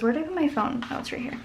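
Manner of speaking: talking through hiccups; hiccuping between words. Real, not acted. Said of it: "Excuse me, hiccuping".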